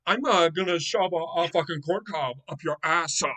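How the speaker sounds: mock a wrestler as a ditzy Valley girl. Podcast host mocks a wrestler's promo delivery, lightly voiced Valley girl. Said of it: "she sounds like a fucking Valley girl".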